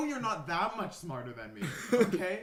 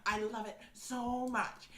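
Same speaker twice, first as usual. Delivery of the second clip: posh know-it-all; 3 semitones higher, 4 dB quieter than usual. Retold or imitated. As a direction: play a pompous snob praising something. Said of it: "and he's like".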